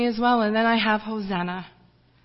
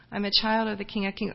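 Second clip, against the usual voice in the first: a bit more audible, still restrained; slightly louder repeat; 4 dB quieter, faster than usual. Retold or imitated. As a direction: repeat it a little more clearly. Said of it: "louder and louder and louder".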